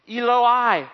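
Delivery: high, loud cry of agony; a dying man's loud anguished call. Acted. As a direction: cry out to God in torment. Jesus crying out on cross.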